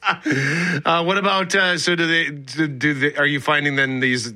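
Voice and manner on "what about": ordinary talk, nothing marked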